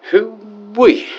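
high country holler; excited whoop. Acted. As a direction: whoop it up with delight. Whooping at leather outfits.

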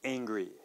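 "angry" said slowly with a flat A; model word. Shown as a demonstration. Teacher models "angry" for learners, flat A start. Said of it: "let's start with the word".

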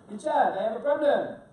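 bad French accent, loud; Bruno. Pastry chef phoning with a problem, bad French accent. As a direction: put on a clumsy, hammed-up French accent. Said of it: "This is my bad French accent".

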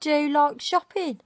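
Brummie model line, rising; Birmingham accent. Shown as a demonstration. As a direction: demo the Brummie way of saying it. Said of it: "teach Clarice a Birmingham accent".

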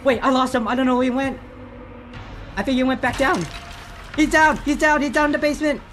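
high, loud excited shouting; yelling across the room. Real, not acted. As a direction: shout it out to your teammate. Chasing enemy, calling to teammate.

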